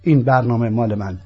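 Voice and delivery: usual speaking voice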